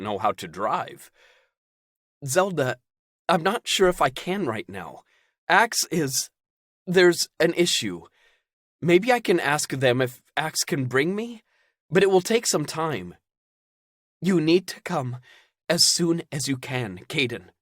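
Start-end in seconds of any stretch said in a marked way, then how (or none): 2.3-13.2 put-on high, loud urgent young man; alarmed Caden. Caden panicking, pressing Zelda on the phone. 14.2-17.5 gently persistent. Acted. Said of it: "gentle persistence in her tone".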